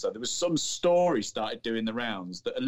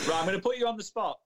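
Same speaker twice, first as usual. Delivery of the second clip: playful challenge; 10 semitones higher, faster than usual. Real, not acted. Host teases guest with question.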